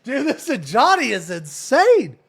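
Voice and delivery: high, loud amazed shout; excited. Real, not acted. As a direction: blown away, yelling. Amazed by Ajani voice.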